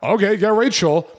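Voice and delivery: mild surprised okay; taken aback. Retold or imitated. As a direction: caught off guard, go along. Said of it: "I'm like".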